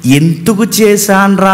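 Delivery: "ఎందుకు చేశాన్రా?" drawn out slowly, as a rueful maker regretting his work; slow self-reproach, the reading he rejects; regretful God, wrong reading. Shown as a demonstration. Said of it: "అని కాదు".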